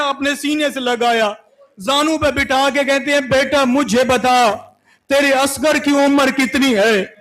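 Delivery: sorrowful preaching chant, voice heavy with grief; lamenting recital. Acted. Preacher telling mourners of Abbas, grieving lament. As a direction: mourn each line as you tell it. Majlis narration of Karbala.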